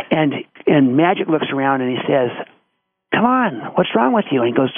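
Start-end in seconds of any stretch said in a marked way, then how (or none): 3.1-4.4 high-pitched mock challenge to teammates; acted pep talk. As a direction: retell a young star rousing his downcast team. Magic rallies discouraged teammates, acted out.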